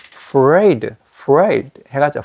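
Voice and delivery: afraid said as one smooth syllable, slow. Shown as a demonstration. Teacher slowly linking afraid for the student. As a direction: run afraid together with no extra vowel. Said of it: "afraid 해가지고 이게 한 음절이에요".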